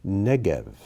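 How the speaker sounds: Negev with the accent on NEG, second syllable falling away; first-syllable stress. Shown as a demonstration. Teacher reading Hebrew vocabulary aloud, Negev stressed on the first syllable. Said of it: "accents on the first syllable".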